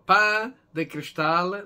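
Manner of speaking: "pan de cristal" said the Spanish way, slow; Spanish name. Shown as a demonstration. Baker tells viewers the Spanish name, said in Spanish. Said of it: "that's the name in Spanish".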